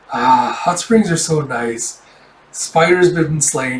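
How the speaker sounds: slow, contented sigh of a line; unhurried mock bliss; acted blissful relief. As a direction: savour it slowly, lightly acted. Relieved soak in hot spring.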